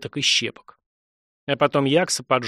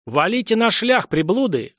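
yelling; 6 semitones higher than usual. A narrator's reading. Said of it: "орал Дамарат".

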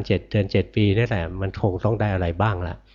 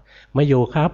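telling a caller the boss is out; 6 semitones higher, 4 dB louder, slower than usual. Retold or imitated. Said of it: "หัวหน้ากองสั่งว่า".

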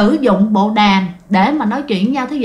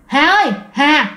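teasing ghostly call; 2 semitones higher, slower than usual. Retold or imitated. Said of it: "giống như chọc ghẹo vậy đó".

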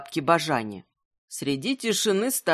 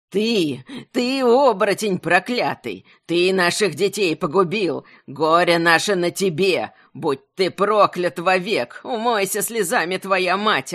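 put-on old woman cursing through tears; seething shrieking curse. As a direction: spit the curses out, choking on sobs. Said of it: "Выкрикивала проклятие, давясь слезами".

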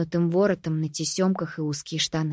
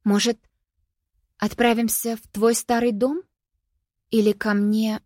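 жалобно; 5 semitones higher than usual. A narrator's reading. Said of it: "жалобно пролепетала Анти".

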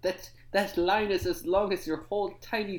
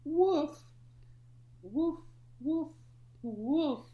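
dog barking; 8 semitones higher, slower than usual. Acted. Pug character barking.

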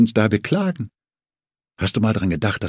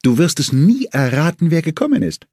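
higher, eager calling up the stairs; feigned excitement, a touch louder; mock enthusiasm; 8 semitones higher, 3 dB louder than usual. A narrator's reading. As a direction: call to his wife with put-on glee. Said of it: "Voll Begeisterung machte ich weiter".

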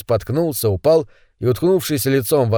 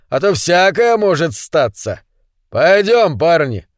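menacing thug; 3 semitones higher than usual. Acted. Pavka threatens, leaves.

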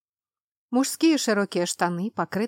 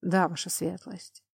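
obedient servant reply; 3 dB quieter than usual. Acted.

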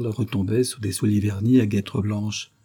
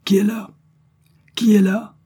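loud, high police challenge; shouted challenge; 12 semitones higher, 7 dB louder than usual. A narrator's reading. Commissioner challenging whoever is upstairs, shouting. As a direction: call out sharply into the house. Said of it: "le commissaire cria par deux fois".

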